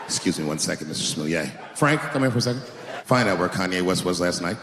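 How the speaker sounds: low, tired cop voice; deadpan like a cop who's heard it all; weary veteran cop. Retold or imitated. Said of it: "police veteran".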